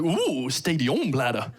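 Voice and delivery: slow, savoured food name with an ooh; impressed, French-sounding. Retold or imitated. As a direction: act intrigued by a fancy French dish. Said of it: "Sounds French".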